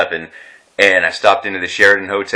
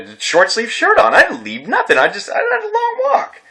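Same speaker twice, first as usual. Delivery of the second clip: pleading. Retold or imitated. Retold pleading defense to doctor.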